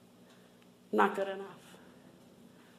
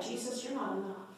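hushed quote; 4 semitones higher, 10 dB quieter than usual. Retold or imitated. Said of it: "So I just said".

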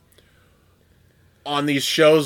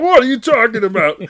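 incredulous voice; 9 semitones higher, 4 dB louder than usual. Pretend. Imitating a skeptical listener.

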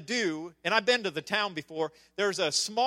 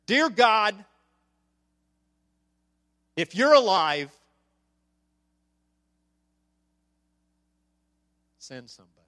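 desperate prayer; 8 dB louder than usual. Retold or imitated. Retelling the owner's desperate prayer.

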